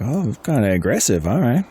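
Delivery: a touch of surprise, pitch lifting at the end; mildly taken aback. Acted. Game master voicing Nico weighing an aggressive move, mildly surprised. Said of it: "he kinda raises his eyebrows a little bit".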